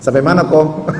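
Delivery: blunt, impatient demand with no softness; curt rough asking. Shown as a demonstration. Preacher mimics a wife's blunt question, curt and rough. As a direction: toss it off bluntly. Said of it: "Kan beda".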